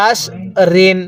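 আশ with a heavy, thick শ; thick shin. Shown as a demonstration. Teacher tells students to read the shin thick. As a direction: make the শ in আশ fat and full. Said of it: "শিনটা মোটা করে".

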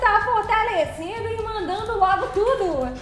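high, loud delighted exclamation; surprised squeal. Real, not acted. Streamer surprised by a big donation, high excited squeal. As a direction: yelp it out, thrilled by the gift.

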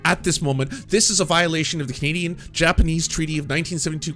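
forceful, indignant bluff; blustering demand. Retold or imitated. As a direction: demand your rights with made-up authority. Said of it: "I was just spouting bullshit at this point".

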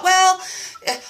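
drawn-out self-excuse; tempted reasoning. Retold or imitated. Eyeing the cookies, a slow tempted excuse. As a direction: talk yourself into it slowly. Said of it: "And I thought".

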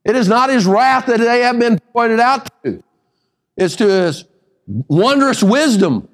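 sermon delivery with held, weighty words; preaching. Real, not acted. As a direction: drive each point home like a preacher. Preaches with raised pitch.

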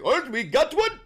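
put-on a high, loud stab at an Asian accent that misses; failed Asian accent. Host mocking North Korean state media, half-hearted Asian accent. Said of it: "I can't do an Asian accent right now".

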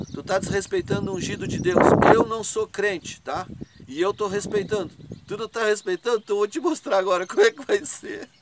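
retold furious warning to a stubborn man; angry threat. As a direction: threaten him over the disrespect.

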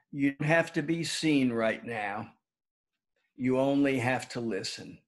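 calm, measured meditation leader with long pauses; guided meditation. Real, not acted. Former teacher inviting the school community to settle in, guided meditation. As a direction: gently guide listeners inward, leaving room between phrases.

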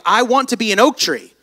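mock frustrated longing, slowing at the end; discouraged acorn. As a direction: plead as the discouraged little acorn. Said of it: "he began to get discouraged because he began to feel like".

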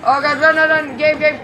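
high, urgent panic; panicked. Real, not acted. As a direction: urge yourself to run. Chased by enemy.

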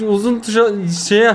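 tongue numb from spicy pepper; stumbling through a burning mouth. Real, not acted. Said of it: "Konuşamadım ya". (acıdan dili yanmış halde)

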